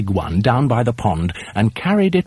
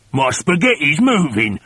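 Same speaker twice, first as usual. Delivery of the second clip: startled cry; 4 semitones higher than usual. A narrator's reading. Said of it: "cried Mister Twit".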